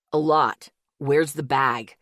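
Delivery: a hard, sharp demand. A narrator's reading. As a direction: bark out the question. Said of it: "Zeke's voice was hard and sharp".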